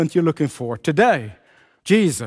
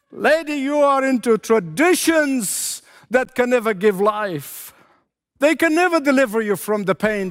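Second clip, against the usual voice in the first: emphatic preaching rebuke, rising higher; blunt, unsubtle; 5 semitones higher than usual. Acted. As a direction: confront her bluntly, pitch climbing. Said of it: "not in a very subtle way".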